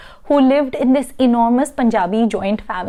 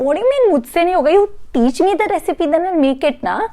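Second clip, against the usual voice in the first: high, fast, offended disbelief; quick outraged pushback; indignant protest; 5 semitones higher, much faster than usual. Retold or imitated. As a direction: protest like you've been insulted. Narrator protests to friend.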